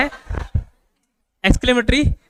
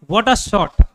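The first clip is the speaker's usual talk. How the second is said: cricket commentary wonder; 4 dB louder, much slower than usual. Shown as a demonstration. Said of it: "क्यों एकदम आश्चर्य, खुश हो गया".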